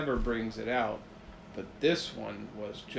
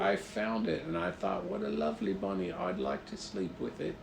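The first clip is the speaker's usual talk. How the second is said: higher-pitched, friendly creature voice; gentle chimera; 6 semitones higher than usual. Pretend. Chimera to child about bunny, gentle high voice. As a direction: play a harmless, sweet-natured monster.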